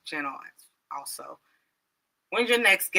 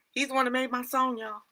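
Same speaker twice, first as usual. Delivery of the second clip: whisper; 5 semitones higher, 5 dB quieter than usual. Real, not acted. Whispered aside to viewer.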